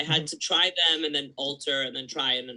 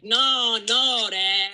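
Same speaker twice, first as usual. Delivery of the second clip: high, loud mock protest; hammed-up uncle objecting; uncle correcting; 7 semitones higher, 5 dB louder, much slower than usual. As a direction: bark out a correction like a fussy uncle. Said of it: "would come in and be like".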